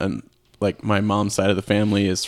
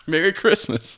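shouted greeting; 8 semitones higher than usual. Pretend. Mock holiday sign-off shout.

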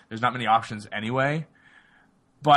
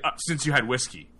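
plain quoted reply, no acting; just say the line flat, as reported; flat matter-of-fact quote; plain retold line. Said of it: "He's like".

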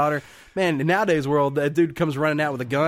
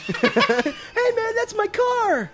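mock indignant owner; much slower than usual. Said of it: "he's like".

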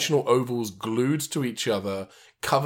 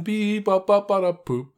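squeaky giggly alien; 7 semitones higher than usual. Retold or imitated. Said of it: "Sorry, that was bad".

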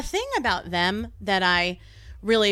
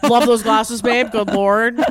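mock Southern accent; 4 dB louder, much slower than usual. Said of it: "talk to yourself in that accent".

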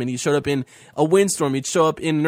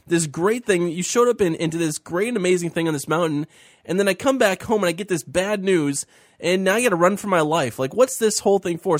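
desperate Elijah; 3 semitones higher than usual. Retold or imitated. Host voicing Elijah complaining to God, high and pleading. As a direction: voice lifted high, pleading and lost. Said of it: "He's like".

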